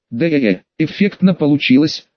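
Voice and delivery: lightly drawn-out, impressed; drawn-out drawl. Acted. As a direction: stretch the first word lazily. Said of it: "протянул карлик".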